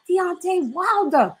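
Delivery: slow, high mock American accent. Quoting Ness naming the fighter in a slow American accent. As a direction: draw the name out slowly in a put-on American accent. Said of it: "You're hilarious when you do your American accent".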